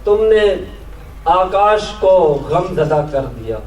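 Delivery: measured Urdu nazm recital, pauses between phrases; poetry recitation. Acted. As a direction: lift each opening, let the line fall away. Recites own poem to audience.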